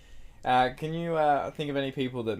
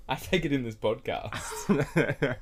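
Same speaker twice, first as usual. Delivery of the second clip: laughing; 2 semitones higher, much slower than usual. Real, not acted. Joking confession, laughing.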